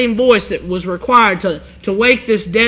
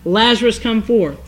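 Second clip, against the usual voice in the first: a restrained calling-out, firmer than just saying it; mildly raised cry. Shown as a demonstration. Preacher quoting Jesus calling Lazarus from the grave, mildly raised cry. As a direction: call it out, without really shouting. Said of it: "With a loud voice, he cried".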